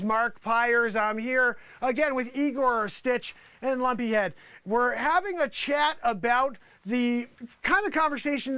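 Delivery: news reporter. Acted. Resumes mock TV news report.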